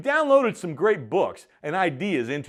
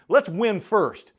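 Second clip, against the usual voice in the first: emphatic rallying call; 7 semitones higher, 7 dB louder, slower than usual. Real, not acted. Rallying leaders mid-argument.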